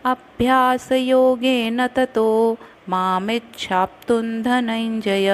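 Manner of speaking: slow, measured reading of the whole verse; shloka recitation. Shown as a demonstration. Teacher reading the complete verse aloud for students. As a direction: recite it evenly, syllable by syllable. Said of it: "अब पूरा पढ़ती हूँ".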